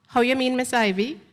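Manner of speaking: lightly voiced young woman caught off guard; narrator's flustered question. Narrator answering Miss Ivy, lightly voiced and flustered. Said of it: "I stutter".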